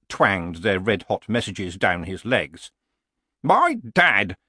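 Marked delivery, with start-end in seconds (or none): 3.4-4.4 put-on high, mildly squeaky old man; squeaked. A narrator's reading. Old barbarian strains upright in pain, squeaking. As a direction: let the voice jump up on it. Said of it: "he squeaked".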